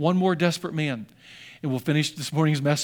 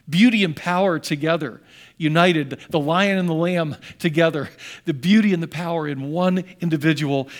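louder, ringing sermon climax; preaching; 4 dB louder than usual. Acted. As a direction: proclaim it to the congregation. Sermon climax on Christ's nature.

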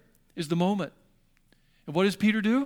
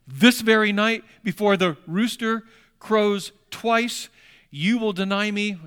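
louder, slow, deliberate warning; solemn warning; 2 semitones higher, 6 dB louder, slower than usual. Acted. Jesus warning Peter he will deny him, slow and forceful. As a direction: press every word home.

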